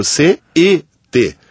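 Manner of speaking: "C E T" spelled out letter by letter; letras soletradas. Shown as a demonstration. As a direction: say "C E T" as three separate letter names. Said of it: "as pessoas pronunciam". ("C E T" soletrado, letra por letra)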